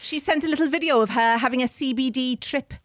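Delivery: lilting attempt at a Welsh accent; put-on Welsh accent. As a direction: read it out as if Welsh.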